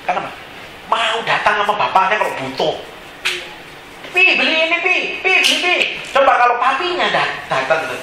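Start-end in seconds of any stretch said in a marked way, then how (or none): 4.1-5.7 high-pitched imitation of a nagging child; pleading child. Child begging father to buy something, mock pleading. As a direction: pester Daddy in a high voice.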